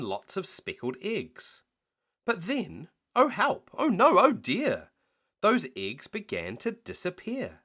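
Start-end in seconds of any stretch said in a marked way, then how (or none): 2.2-7.6 rising alarm, higher and louder; dramatic alarm. A narrator's reading. Narrator to children, building alarm. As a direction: gasp out the trouble.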